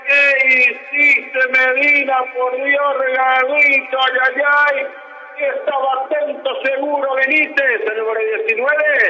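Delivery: soaring goal call, drawn out; breakneck goal commentary. Real, not acted. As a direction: erupt over the goal. Goal scored, commentator erupts.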